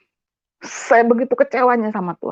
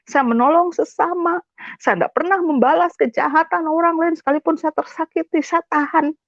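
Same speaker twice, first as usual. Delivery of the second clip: higher-pitched, aggrieved self-defence; hurt, insistent protest; retold tearful protest; 5 semitones higher than usual. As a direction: plead your case to God, voice raised in pitch. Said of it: "Saya nangis, saya marah".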